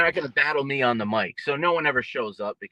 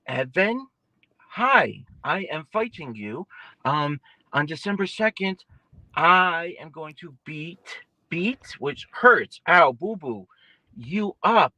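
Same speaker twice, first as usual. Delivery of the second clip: put-on slow, higher, sing-song baby talk; talking down to a child; 4 semitones higher, slower than usual. Boxer mocking opponent Evan as a five-year-old, slow condescending baby talk. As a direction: spell it out slowly like to a toddler. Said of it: "talk to him like he's a little five-year-old".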